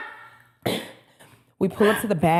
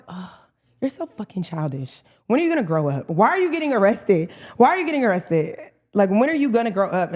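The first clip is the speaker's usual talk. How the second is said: scolding self. Retold or imitated. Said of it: "But then I was like".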